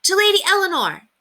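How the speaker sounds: high, ringing shout of a toast. A narrator's reading. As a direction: lift the tankard and shout it high. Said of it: "raised his own tankard and shouted".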